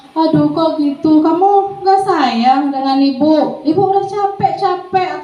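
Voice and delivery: lightly acted plaintive, drawn-out guilt trip; weak guilt-tripper. Shown as a demonstration. Teacher makes a student feel guilty, mildly weak plaintive voice. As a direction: plead slowly, rising into a high, weary complaint. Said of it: "biasanya suaranya lemah ya".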